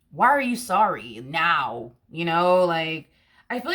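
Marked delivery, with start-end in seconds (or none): 0.1-1.9 slow, emphatic disbelief; incredulous challenge. Acted. Challenging the person who is only now sorry, incredulous. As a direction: drag out the baffled question. Acted confrontation continues.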